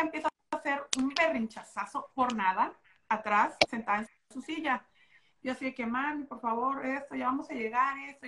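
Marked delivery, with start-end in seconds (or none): 5.9-8.3 soft, coaxing mom voice, a touch quieter; talking sweetly. Retold or imitated. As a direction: gently coax a fussy child in the car. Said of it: "yo hablándole bonito". (hablando bonito, suave y paciente)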